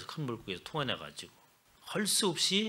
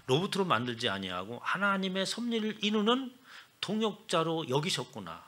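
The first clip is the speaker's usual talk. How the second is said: ordinary delivery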